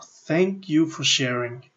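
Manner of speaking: calm thanks. Shown as a demonstration. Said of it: "Say it out loud".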